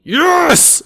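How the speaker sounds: sudden high yelp of joy; excited. Real, not acted. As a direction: cheer the roll, high and bright. Excited at a good roll.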